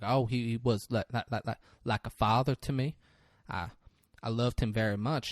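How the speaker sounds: low, softly stammering witness; halting witness. Acted. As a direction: stumble gently over the opening words. Retelling a timid witness's halting testimony.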